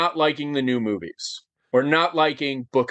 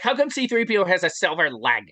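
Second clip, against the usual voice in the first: mock fan question; 4 semitones higher than usual. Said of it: "a lot of people would be like".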